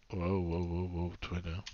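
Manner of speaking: low, soft shushing aside under the breath; hushed aside. Real, not acted. Teacher breaks off the lesson to hush someone, softly. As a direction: quietly settle someone down off-mic.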